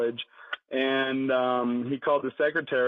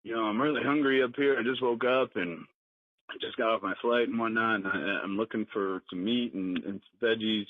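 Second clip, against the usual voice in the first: Bill Cosby impression; 3 dB quieter than usual. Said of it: "somebody's doing a great Bill Cosby impression".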